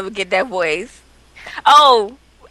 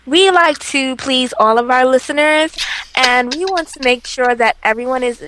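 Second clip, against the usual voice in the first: white people voice. Pretend. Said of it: "Can you do it again, please?".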